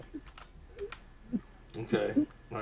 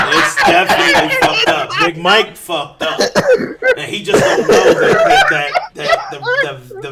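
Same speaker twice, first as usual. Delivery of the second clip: cackling with high squeaks; gloating laugh; 12 semitones higher than usual. Real, not acted. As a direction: laugh triumphantly through the words. Gloating about revenge.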